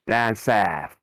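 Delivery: put-on "down south" as "dahn saf" in London accent; broad mock-London vowels on "down south". Game master echoing players' directions, playful London accent.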